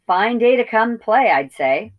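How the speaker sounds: put-on loud puffing old ewe. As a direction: puff it out, winded. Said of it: "puffed the old sheep".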